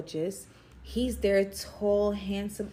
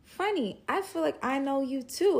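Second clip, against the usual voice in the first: flirty reply; 6 semitones higher than usual. Retold or imitated. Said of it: "And I'm like".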